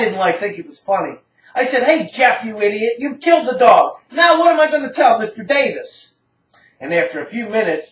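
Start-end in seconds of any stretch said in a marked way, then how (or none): 1.8-6.2 angry retold yell. Scolding Jeff for freezing the neighbor's dog, upset yell. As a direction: chew Jeff out, rising to a yell.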